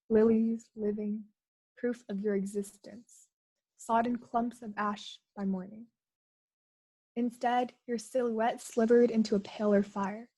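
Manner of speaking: measured poem recital, pausing between phrases; poetry reading. Acted. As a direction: recite it line by line, letting each image land. Reads second poem aloud.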